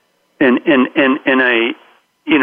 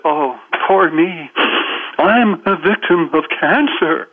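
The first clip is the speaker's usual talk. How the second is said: slow, higher-pitched poor-me wail; mock self-pity; 4 semitones higher, slower than usual. Imagined cancer patient pleading victimhood, mock self-pitying. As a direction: drag it out like a hammed-up victim.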